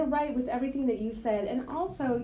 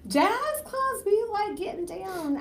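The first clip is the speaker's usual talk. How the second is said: mock sultry jazz; 10 semitones higher, slower than usual. Joking about jazz clubs.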